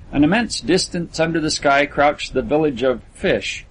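plain reading voice

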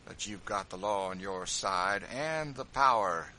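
loud, slow bitter retort; bitter acknowledgement; slow, loud bitterness; bitterly. A narrator's reading. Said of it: "said George bitterly".

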